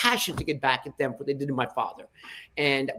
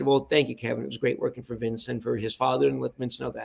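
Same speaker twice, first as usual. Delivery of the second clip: softening, understated gratitude; gracious thanks; 2 semitones lower, 4 dB quieter than usual. Retold or imitated. Father thanking the caller who cut his paycheck, quietly gracious. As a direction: thank him gently, trailing softer toward the end. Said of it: "my dad with grace said".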